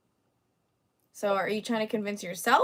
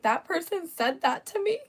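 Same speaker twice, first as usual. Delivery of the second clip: mock crybaby; 2 semitones higher than usual. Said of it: "walking around crying like".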